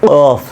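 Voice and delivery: teacher naming the hard qaf; Arabic qaf. Shown as a demonstration. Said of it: "কি উচ্চারণ এটা?".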